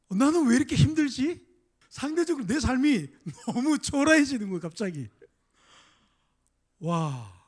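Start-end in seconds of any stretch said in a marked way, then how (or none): 0.1-1.5 dejected sigh. Retold or imitated. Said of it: "낙심이 되는 거야".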